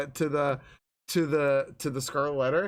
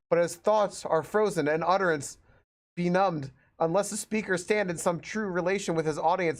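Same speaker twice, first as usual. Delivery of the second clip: steady, formal read of ornate prose; book reading aloud. Acted. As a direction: plough on through a long-winded introduction. Reads book introduction aloud.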